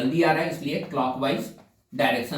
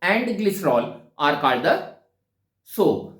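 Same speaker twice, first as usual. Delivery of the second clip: slow dictation; much slower than usual. Shown as a demonstration. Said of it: "तो आपको कहा गया था".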